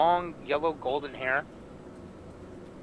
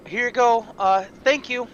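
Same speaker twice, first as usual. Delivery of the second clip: higher, louder, brisk customer-service voice; busy baker; 8 semitones higher, 8 dB louder than usual. Acted. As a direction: rush it, serving the next in line.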